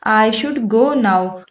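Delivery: slow, word-by-word example sentence; slow dictation. Shown as a demonstration. Teacher reading an example to Hindi-speaking students, slow and deliberate. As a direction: read it out slowly for learners to copy. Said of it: "teacher reads English example".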